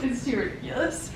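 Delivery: breaking into laughter; can't stop laughing. Real, not acted. Cracking up mid-take.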